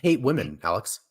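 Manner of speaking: feigned dismay, stretched out; mock accusation. Co-host teasing Alex over a movie, mock-accusing.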